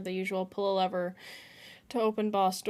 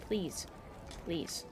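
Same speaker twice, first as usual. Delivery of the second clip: softer and softer please; fading pleas; 4 semitones lower, 9 dB quieter than usual. Real, not acted. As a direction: beg it, trailing off. Pleading fades away.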